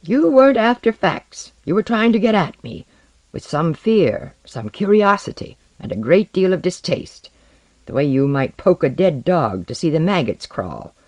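high, heated accusation; voice rising in anger. A narrator's reading. Man demanding to be left alone, exasperated. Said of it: "His voice had risen".

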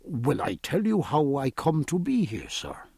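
lightly voiced gentle young man; deep gentle voice. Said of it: "in his deep, gentle voice".

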